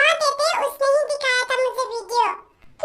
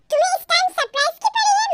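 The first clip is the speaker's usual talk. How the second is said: angry demand; 5 semitones higher, faster than usual. Acted. Wife angrily demands answers.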